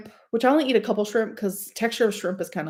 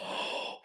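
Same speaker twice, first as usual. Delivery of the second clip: quiet, sharp intake of breath; excited gasp; 15 dB quieter than usual. Real, not acted. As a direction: gasp at delicious food. Excited reaction to food.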